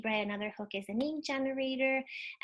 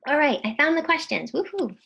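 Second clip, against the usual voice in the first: louder, higher burst of relief; relieved cheer; 4 semitones higher, 9 dB louder than usual. Real, not acted. Teacher finally finding the audience questions, cheering. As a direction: celebrate the little win out loud.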